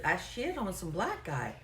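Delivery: "shit" and "black" drawn out slowly; enunciated very clearly. Retold or imitated. Caller repeating for the agent, "black" slowly and clearly enunciated. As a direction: stretch "shit" and "black", each word distinct. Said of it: "enunciated very clearly again".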